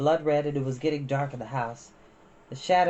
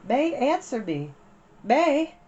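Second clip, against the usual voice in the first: high, loud shout across the yard; calling out; 10 semitones higher, 4 dB louder, much slower than usual. A narrator's reading. Big sister calling for her missing sister, loud and high. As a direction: call for a lost child.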